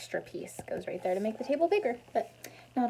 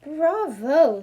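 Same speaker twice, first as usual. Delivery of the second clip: loud bravo; 6 semitones higher, 10 dB louder than usual. Acted. Character cheers at costume.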